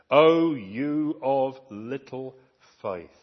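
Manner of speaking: slow, weighty rebuke; gentle rebuke. Retold or imitated. Jesus rebuking anxious followers, slow and grave. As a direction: say it slowly like a sorrowful reproach.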